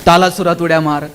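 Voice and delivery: a hint of a teacher reasoning with a pupil; coaxing teacher. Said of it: "त्याला सांगावं लागेल".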